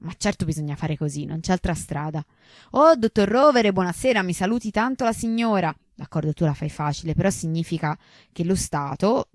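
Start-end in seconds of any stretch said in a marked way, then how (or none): 2.7-5.8 high, loud gushing hello to an acquaintance; sudden social greeting. Acted. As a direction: break off to greet someone warmly. Saluto mondano improvviso. (saluto mondano esagerato)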